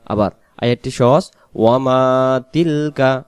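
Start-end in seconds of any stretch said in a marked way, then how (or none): 1.5-3.2 lengthened "maa" in ওয়ামা; long mim vowel. Shown as a demonstration. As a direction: draw out only the মা in ওয়ামা. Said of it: "শুধু মিম অক্ষর টান".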